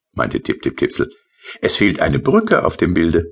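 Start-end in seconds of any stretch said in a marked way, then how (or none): 1.6-3.3 high, light little sprite voice; tiny rain sprite. Acted. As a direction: play the small rain creature, pitched up. Tipsel's voice in story. (hohe, leichte Koboldstimme)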